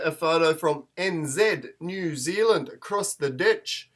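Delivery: terrible attempt at a New Zealand accent; bad New Zealand accent. Australian host introducing a photo from across the ditch, bad New Zealand accent. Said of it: "that's a terrible New Zealand".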